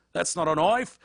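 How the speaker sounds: Australian accent, tailing up at the end; Aussie lilt rising on knife. Shown as a demonstration. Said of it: "The trick to the Australian accent is to go up".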